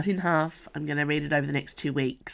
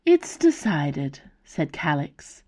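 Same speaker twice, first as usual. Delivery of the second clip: measured storytelling read, characters lightly voiced; story narration. A narrator's reading. Author reading her novel to listeners, storytelling voice. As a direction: read the chapter aloud to podcast listeners.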